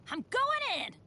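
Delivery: high-pitched, determined call; eager battle cry. Acted. Adventurer charging into battle, eager cry.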